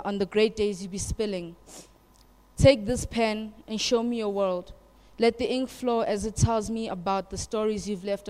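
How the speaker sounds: emphatic spoken-word delivery; measured poem performance with firm openings; poem recital. Acted. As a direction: recite it line by line, driving each phrase. Recites own poem to audience.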